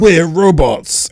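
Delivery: slow, stiff robot monotone; lightly mocked, deliberately spaced robot words. Podcaster mocking the episode's robots, in a slow robot voice. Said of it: "and they were like".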